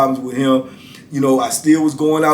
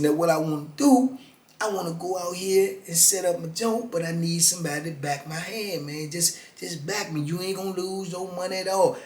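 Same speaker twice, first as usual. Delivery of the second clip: hustler's pitch; 9 dB quieter than usual. Retold or imitated. Hustler pitches his scheme.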